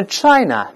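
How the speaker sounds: China ending in a plain uh. Shown as a demonstration. Teacher corrects the mistake, China with no r. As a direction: say China without curling the tongue. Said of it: "后面还是呃的声音".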